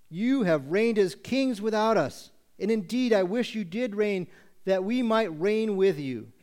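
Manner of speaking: sarcastic. Acted. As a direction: praise them grandly but sarcastically. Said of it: "he's gonna do it using sarcasm".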